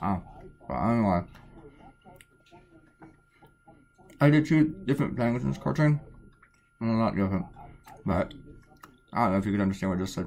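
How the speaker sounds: speaking with mouth full of food. Eating a Pop-Tart while talking to viewers, the speaker talks with mouth full. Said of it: "talking with food in my mouth".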